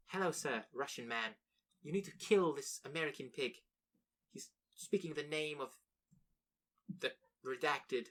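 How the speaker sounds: hammed-up Russian accent ordering a hit; a jokey Russian villain accent; mock Russian accent. Mocking fans, hammy Russian accent calling for an execution. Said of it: "I don't know why they're Russian".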